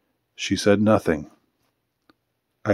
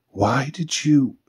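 slow, higher, hesitant start of a question; tentative question left hanging; broken-off question; 5 semitones higher, slower than usual. A narrator's reading. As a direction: begin to ask, then stop short. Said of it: "she began to ask the question, but stopped".

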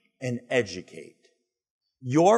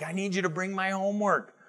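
put-on higher, demanding teenage son; whiny teen son; 7 semitones higher, 4 dB quieter than usual. Son asking dad for forgotten homework, higher and demanding. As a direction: ask like a kid who expects it done. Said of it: "He's like".

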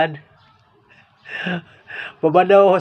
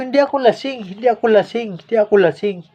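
high insistent denial, easing down; protesting sober; 5 semitones higher than usual. Retold or imitated. To the guard who says he's drunk, high protesting denial. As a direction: swear you're sober, pitch high at first.

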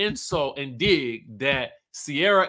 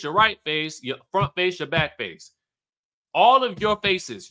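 mock tirade, a little higher, punching each jab; retold insult rant; 3 semitones higher than usual. Vlogger retells a reality star's insults at party, mock tirade. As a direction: act out a relentless roasting.

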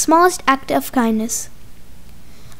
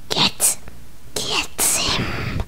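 whisper; 4 semitones higher, 10 dB quieter, much slower than usual. Acted. Villain sneaks up on baby.

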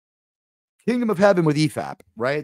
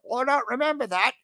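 mock puzzled; 9 semitones higher than usual. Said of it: "And then Chad's like".

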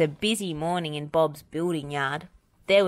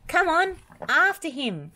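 high, raised rallying call; urgent storybook shout, pitched up; 12 semitones higher, 4 dB louder than usual. A narrator's reading. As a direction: call the others to the chase. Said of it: "called Wendy".

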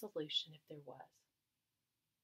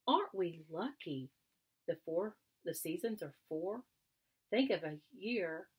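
louder rhythmic recitation of the poem; poem recital; 3 dB louder than usual. Acted. Frederick performing his seasons poem to the mice, stagey recital. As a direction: declaim it like a poet on a stage. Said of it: "as if from a stage".

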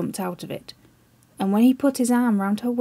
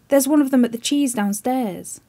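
crying aloud; 4 semitones higher, 4 dB louder than usual. Acted. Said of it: "he would cry aloud".

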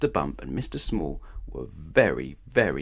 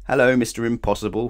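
smiling greeting; 3 semitones higher, 6 dB louder, faster than usual. Acted. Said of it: "he smiled".

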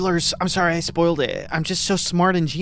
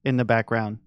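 sarcastic. Acted. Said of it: "he said sarcastically".

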